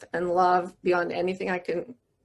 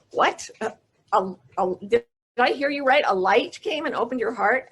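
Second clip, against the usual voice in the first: surprised; 3 semitones higher than usual. Retold or imitated. Mother astonished at son's words.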